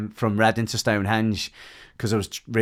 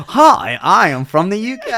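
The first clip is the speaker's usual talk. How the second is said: mock southern English accent, much higher and louder, breaking into laughter; redoing the trainer's southern English accent while giggling; laughing southern accent; 11 semitones higher, 12 dB louder than usual. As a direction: try the southern English accent again but crack up laughing through it. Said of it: "What accent is that?".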